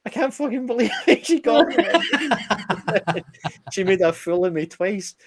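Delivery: high laughing disbelief, words breaking into laughter. Real, not acted. Retelling the vodka prank to a friend, laughing hard.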